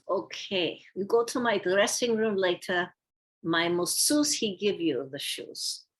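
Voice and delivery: imitated Russian-accented English; lightly mimicked Russian speaker. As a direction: give terse orders in a light Russian accent. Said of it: "in his Russian accent".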